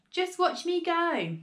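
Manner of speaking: high, drawn-out boastful call. A narrator's reading. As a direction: stretch it out so it carries downstairs. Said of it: "she called down to George".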